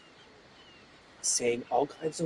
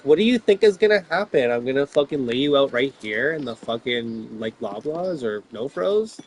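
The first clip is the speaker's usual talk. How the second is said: furious rant at the cowards; angry outburst; 5 dB louder than usual. Real, not acted. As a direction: threaten them, voice raised.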